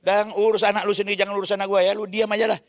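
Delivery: a touch of irritated telling-off; a pastor rebuking his older brother; angry retort. Retold or imitated. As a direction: snap back at the brother, mildly heated. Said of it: "marah lagi saya".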